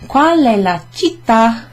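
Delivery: "Qual è la città?" slow, with "città" stressed on the last syllable; slow model line, stress on "tà"; slow teaching model. Shown as a demonstration. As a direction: say "città" slowly, hitting the final "tà". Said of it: "you just put a stress emphasis".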